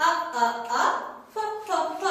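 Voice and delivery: "a" and "f" as short repeated letter sounds; sounding out. Shown as a demonstration. Teacher showing children how to say afar, sounding out. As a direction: say "a, a, a, f, f, f" one separate sound at a time. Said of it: "এখানেও ঠিক এভাবে বলবো".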